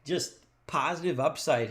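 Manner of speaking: giddy, laughing, words tumbling out; bubbling over with excitement; excited laugh. Real, not acted. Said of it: "I'm so excited about it".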